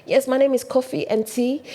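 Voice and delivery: the name said like English "Coffee and Tea"; Brusselarized name. Retold or imitated. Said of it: "he had Brusselarized it so much".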